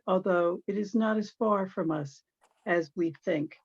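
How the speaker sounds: measured elegy, lines falling at their ends; poem reading. Acted. Reading a poem for a friend who died, measured poetry recital. Reads second memorial poem aloud.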